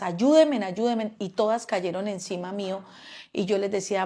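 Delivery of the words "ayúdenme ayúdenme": shout for help. Retold or imitated. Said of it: "yo empecé a gritarles a ellas".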